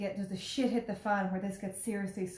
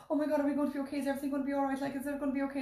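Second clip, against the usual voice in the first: higher-pitched, mildly panicked questions; anxious pleading; 6 semitones higher, much faster than usual. Retold or imitated. Nervous passenger questioning crew in turbulence, anxious. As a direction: re-enact begging for reassurance.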